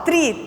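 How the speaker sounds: "tri" said high and stressed; stressed syllable. Shown as a demonstration. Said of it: "vamos ver tritongo".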